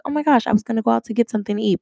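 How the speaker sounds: lightly acted, fast happy gushing; retold grateful surprise. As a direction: gush quickly, imitating his thanks. Boyfriend's grateful reaction, retold.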